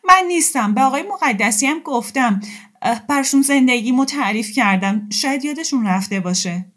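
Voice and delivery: high, loud tearful protest; pleading through tears; a woman insisting through sobs. Acted.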